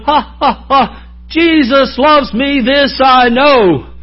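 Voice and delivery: slow, laughing sing-song; carefree chuckle through the words. Pretend. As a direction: laugh off the insults, slowly. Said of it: "You can walk away going".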